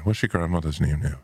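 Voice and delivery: lightly imitated Irish lilt; singsong Irish accent. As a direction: have a go at an Irish local's singsong. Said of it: "singing way of talking".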